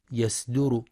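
يسدر with a thin s sound in place of the heavy ص; thin sad error. Shown as a demonstration. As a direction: say يصدر with a light سين. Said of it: "يخطئ من يقرأ يصدر بترقيق الصاد". (يسدر بترقيق الصاد)

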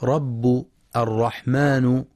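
رب and الرحمن ending in "u"; wrong case endings. Shown as a demonstration. Teacher showing a common misreading, final damma on رب الرحمن. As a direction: say "rabbu" and "ar-rahmanu" for رب الرحمن. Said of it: "يخطئ بعضهم فيقرأ".

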